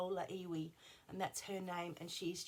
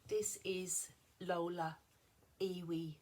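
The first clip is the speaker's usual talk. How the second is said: whispering; slower than usual. Real, not acted. Showing off her crochet sheep.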